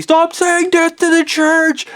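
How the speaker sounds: very high screech; imitating screaming wives. Wives telling the speaker to stop, imitated screech. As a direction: shriek it as the outraged wives. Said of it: "the wives telling me".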